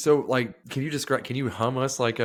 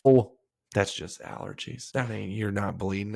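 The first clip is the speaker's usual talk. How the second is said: dismissive grandma; 3 semitones lower than usual. Retold or imitated. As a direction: whisper it like a grandma waving it away.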